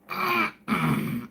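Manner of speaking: flustered throat-clear, acted out; imitated throat clearing. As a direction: clear the throat like someone caught out. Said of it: "you could see Bill Nye go".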